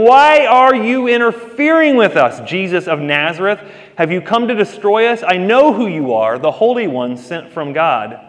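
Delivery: high, loud demonic cry, fading toward the end; demon shouting. Acted. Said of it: "and he began shouting".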